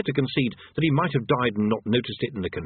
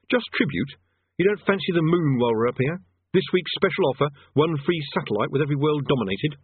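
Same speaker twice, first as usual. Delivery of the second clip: mildly mocking, raised sales-pitch voice; sarcastic wizard; 5 semitones higher than usual. Rincewind offering a free satellite, mildly sarcastic. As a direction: pitch it higher like a mock special offer.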